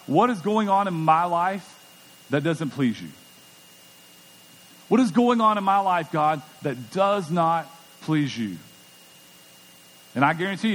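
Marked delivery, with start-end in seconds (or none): 0.0-3.1 sincere prayer. Retold or imitated. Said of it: "ask God". 4.9-8.6 earnest prayer. Retold or imitated. Pastor modelling a searching prayer to God, earnest then hushed. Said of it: "ask God".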